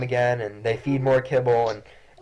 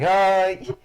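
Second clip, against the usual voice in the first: higher, cooing at the cat; cooing mother; 8 semitones higher, slower than usual. Acted. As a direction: coo over the sweet cat. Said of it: "She's like".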